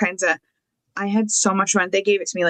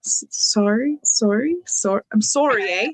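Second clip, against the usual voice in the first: mock Canadian accent. Shown as a demonstration. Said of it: "that was, like, Australian".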